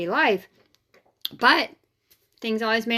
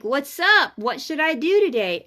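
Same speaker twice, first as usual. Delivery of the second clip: casual chat with God; 3 semitones higher, 3 dB louder than usual. Shown as a demonstration. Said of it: "I literally talk like that to God".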